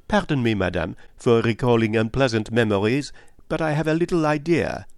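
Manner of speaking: lightly voiced polite investigator; courteous detective Poirot. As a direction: apologise courteously, lifting at the end.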